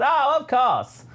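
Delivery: high, slow prim droid voice; Triple Zero voice. Retold or imitated. The droid answers B T in a high, slow purr. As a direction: purr it like a fussy butler droid. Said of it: "and he says".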